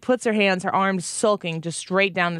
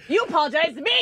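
mock stern mom; 9 semitones higher than usual. Playful mock-scolding banter.

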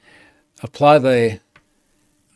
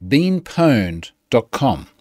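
slow spelled-out address; much slower than usual. Shown as a demonstration. Repeats the web address slowly.

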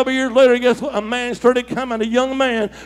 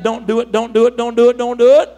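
mock voice of hell; 5 dB louder than usual. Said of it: "heard hell tell you that".

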